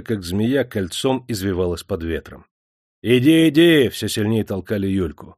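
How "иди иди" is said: loud, pushing command; rough shout. A narrator's reading. The crowd drives Yulka to the gate, shouting. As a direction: shove her along with your voice.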